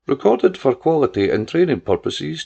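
lightly imitated recorded phone message; automated voice. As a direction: read it like a machine announcement. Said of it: "she imitated the automated voice".

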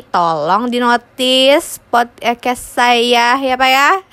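slow, exaggerated begging plea; mock pleading. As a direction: beg the boss playfully, slowly. Begging the CEO jokingly.

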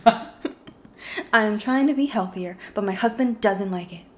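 lightly put-on true crime narrator; a hint of a true crime novelist reading. Host reading the title in an attempted anchor voice, mildly true crime. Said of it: "that's like a true crime novelist voice".

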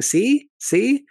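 high, loud, teasing "See? See?"; goofy "see". Retold or imitated. Robin pointing at Cody for the camera, goofy and teasing. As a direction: point and gloat, playfully. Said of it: "makes a goofy smile at the camera".

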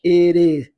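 IT IS with the T flapped like a Portuguese R. Shown as a demonstration. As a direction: say IT IS with a tapped R in place of the T. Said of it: "Olha o T em R novamente". (IT IS com o T som de R)

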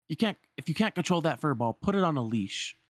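lightly voiced scolding peddler. Peddler to Aladdin about his monkey, mildly scolding. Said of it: "the peddler's kinda got them cornered".

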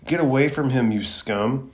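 put-on angry boy yelling at a villain. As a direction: shout at him to get away from the body. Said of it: "And Naruto yells".

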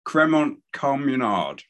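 Cremont said with an audible final T; learner's attempt at Cremont, T sounded. Real, not acted. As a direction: pronounce the T ending Cremont. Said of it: "without pronouncing the T in the middle".

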